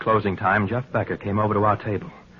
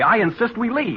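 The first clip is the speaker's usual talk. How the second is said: sharply raised, insisting voice; firm demand; 9 semitones higher than usual. Acted. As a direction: put your foot down and demand it. Husband demands they leave.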